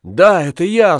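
wife's reply. Acted. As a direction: answer simply, a hint of wistfulness. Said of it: "сказала та".

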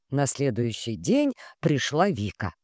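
ordinary delivery

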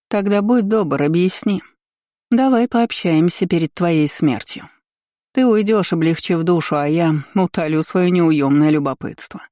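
lightly voiced, condescending empress; a hint of an imperious, amused ruler; mocking empress.

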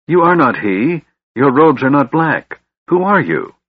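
high, agitated bewilderment; confused cry. A narrator's reading. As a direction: demand answers in rising confusion. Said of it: "he cried".

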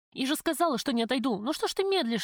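high, desperate defiance; defiant plea. A narrator's reading. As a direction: beg and dare him at once. Heroine defies gunman, pleading. (отчаянный высокий крик)

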